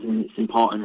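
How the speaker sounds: voice crack. Real, not acted. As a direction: voice cracking mid-sentence. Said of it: "just as a voice crack".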